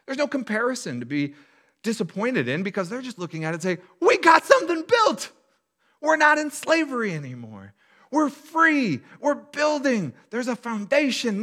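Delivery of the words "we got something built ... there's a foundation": joyful youth. Retold or imitated. Pastor voices young people cheering the new foundation, excited. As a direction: cheer like newly freed people.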